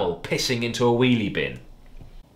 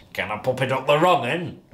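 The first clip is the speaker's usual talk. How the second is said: lightly put-on northern English accent; a broad northern English bloke asking; northern drawl; 4 semitones higher than usual. A narrator's reading. Darren mid-sex asking Jill, northern English accent. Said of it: "in his barely comprehensible northern drawl".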